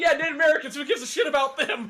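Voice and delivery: put-on furious, fed-up, indignant angry outburst. Retelling what an angry comedian said on a show: imitating someone angry. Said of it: "he was so angry".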